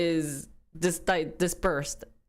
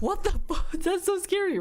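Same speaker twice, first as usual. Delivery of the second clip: high laughing shocked outburst; stunned by the warning; 11 semitones higher than usual. Retold or imitated. Mom retelling being shocked by the nurse, high and laughing. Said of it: "I'm like".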